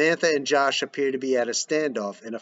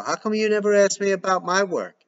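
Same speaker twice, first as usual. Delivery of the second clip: higher, indignant question; resentful; 7 semitones higher than usual. Acted. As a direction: fire back hurt. Giselle resentful retort.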